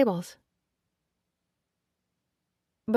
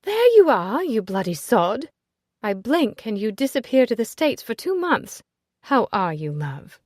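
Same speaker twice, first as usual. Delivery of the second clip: loud, high, teasing aristocratic friend; brash society lady; 3 semitones higher, 6 dB louder than usual. Acted. Ezzy greeting Nicholas at the party, loud and teasing. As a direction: greet him with a bawdy, affectionate jab.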